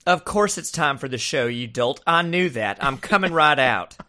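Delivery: haughty put-on voice; different voice. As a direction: play a pompous star behind the door. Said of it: "I was just doing a different voice".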